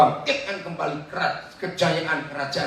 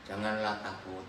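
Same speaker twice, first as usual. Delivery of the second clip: flat reading; 8 semitones lower, 10 dB quieter than usual. Shown as a demonstration. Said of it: "Tadi gimana intonasi saudara?".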